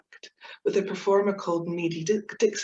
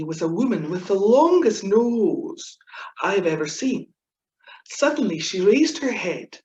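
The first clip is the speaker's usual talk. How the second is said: retelling a Chick Murray joke. Retold or imitated. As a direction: draw out the punchline dryly. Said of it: "it goes a bit like this".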